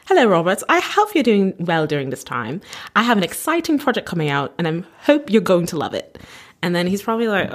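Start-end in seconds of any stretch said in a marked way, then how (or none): 0.1-6.2 lightly hammed-up British accent; mock British message reading; fake British accent. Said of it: "we're just gonna fake a British accent".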